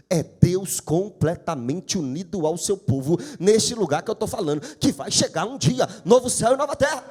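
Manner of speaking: rising to a loud preaching peak; loud preaching climax. Real, not acted. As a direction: build and hammer it out loud.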